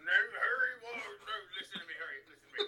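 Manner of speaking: high, loud, half-crying plea to Harry; pleading Hagrid-Boris. Acted. Hagrid-Boris pleading with Harry, high loud near-crying. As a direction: beg Harry with rising panic.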